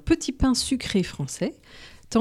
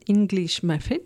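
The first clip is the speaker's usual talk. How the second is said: "English muffin" said with an English accent. Shown as a demonstration. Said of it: "n'est-ce pas, mon accent".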